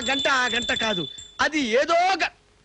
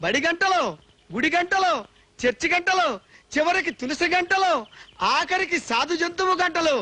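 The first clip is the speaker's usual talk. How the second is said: hammed-up pleading prayer, slightly raised; comic prayer. Man begging God to save him from the bells, comic wailing prayer. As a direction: beg heaven like a desperate devotee, half-crying.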